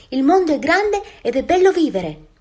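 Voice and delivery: high, loud duckling voice; exclaiming newborn ducklings. A narrator's reading. Newborn ducklings greeting the big world, excited exclamation. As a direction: cry out high with delight at the world. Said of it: "esclamarono i nuovi nati".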